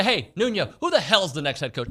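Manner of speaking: high-pitched heckle from a stranger; mean tone. Acted. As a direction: accost him like a rude troll in person. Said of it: "read it in a mean tone".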